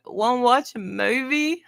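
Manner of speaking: lightly voiced eager child; grandchild quote. Grandson asking grandma for movie, light kid voice. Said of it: "he's like".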